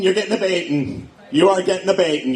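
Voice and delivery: beating said as "baiting", the E turned to an A; Irish vowel swap. Shown as a demonstration. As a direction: lean on baiting as "bay-ting", mock Irish. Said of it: "Just take your E's and turn 'em into A's".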